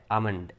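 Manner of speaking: આમંડ as "AA-mund", no L; silent L. Shown as a demonstration. Teacher modelling the word, silent L. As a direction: say આમંડ with the L left out. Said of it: "એલ silent છે".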